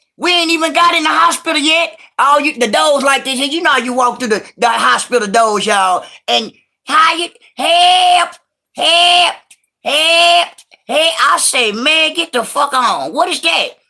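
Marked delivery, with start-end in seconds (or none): 6.3-10.5 mock very slow, high, long-stretched hollers. Telling of walking through the hospital doors: imitating Pigfeet hollering for help. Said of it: "You hear Pigfeet hollering down the hallway".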